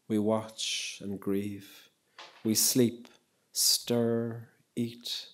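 slow, solemn poem reading with long pauses. Acted. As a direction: let each image sink in, slowly. Reads Tracy K. Smith poem.

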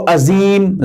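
عظیم said with a plain z, "azeem"; wrong z sound. Shown as a demonstration. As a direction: mispronounce عظیم with an ordinary z for the heavy ظ. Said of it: "زا پڑھتے ہیں". (عظیم کو سادہ زا سے غلط پڑھنا)

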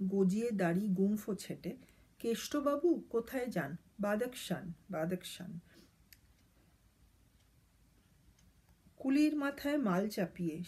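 put-on rhythmic, sing-song reading of a children's rhyme; poem recitation. Reads the poem aloud. (ছন্দে ছন্দে ছড়া আবৃত্তি)

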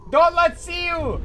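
Don't let see you! shouted loud and slow; loud urgent warning. Shown as a demonstration.

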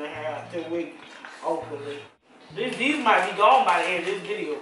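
eating snack between words; talking while chewing. Real, not acted. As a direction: mouth partly full of popcorn. Seen 2: Capped adult keeps hand at mouth, eating popcorn from bag throughout.

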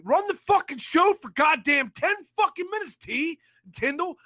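firm, heated order; angry demand. Real, not acted. Caller demanding the rival run the show, heated. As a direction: lay down the demand hard. Demand said, then repeated shouted.

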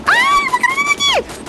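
panicked shriek. Real, not acted. Gamer sees a grenade land beside her, panicked shriek. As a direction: shriek a warning about the grenade.

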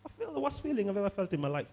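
mock-suffering patient pleading with a doctor; a touch of mock desperation; wavering patient. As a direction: lightly act out a sick doubter's complaint. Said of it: "Then tomorrow you say".

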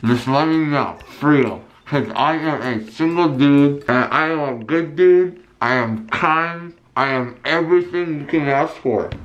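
numb lips after wisdom teeth; words through a numb mouth; numb from the dentist. Real, not acted. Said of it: "But my lip is numb".

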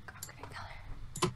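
low, very soft playful threat; secretive mock vow to win; hushed threat. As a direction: murmur it under your breath, almost whispering. Mock threat trailing under her breath.

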